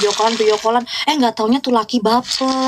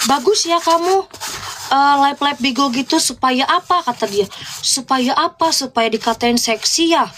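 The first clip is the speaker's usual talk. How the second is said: imitating a jealous guy; 2 semitones higher than usual. Retelling the guy's jealous complaint about her Bigo lives, mock whiny. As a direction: parody his possessive nagging. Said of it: "bapernya gini ngomongnya".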